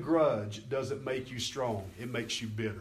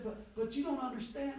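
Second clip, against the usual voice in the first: higher, softer pleading imitation; mock protest; 8 semitones higher, 4 dB quieter than usual. Preacher retells a woman objecting to his rebuke, mock protesting. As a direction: mimic her stammered protest, high and soft. Acting out her protest in argument.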